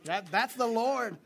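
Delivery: normal talking voice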